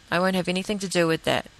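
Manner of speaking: calm, no emotion in the voice; even, unemotional refusal; matter-of-fact. Shown as a demonstration. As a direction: state it flatly, just the facts. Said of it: "is basically how I said it".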